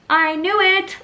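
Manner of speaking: high, loud I knew it; exasperated outburst. Retold or imitated. Mother hears she is fully dilated, bursting out. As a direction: burst out as if proven right. Told she's ten centimeters.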